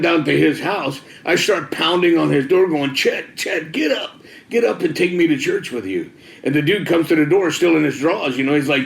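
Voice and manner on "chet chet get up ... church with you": retold urgent plea, voice pitched up; mock urgent calling. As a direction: imitate rousing someone through a door. Retold pounding on friend's door.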